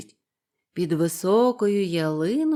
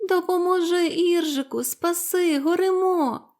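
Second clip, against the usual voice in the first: high, loud pleading little ants; shrill-pitched cry for help from a fire; desperate ant cries; 9 semitones higher, 4 dB louder than usual. A narrator's reading. Ants trapped in fire begging Іржик, high panicked cries. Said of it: "як кричать йому мурахи".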